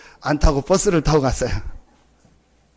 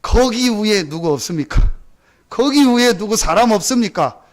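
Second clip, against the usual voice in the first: mock shout up the cliff; calling out for help; 4 semitones higher than usual. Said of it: "소리를 지르는 거예요". (벼랑 위로 도움을 외치는 흉내)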